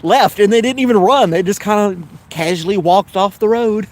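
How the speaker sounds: high, amused, through giggles; laughing while telling. Real, not acted. Laughing through funny deer story.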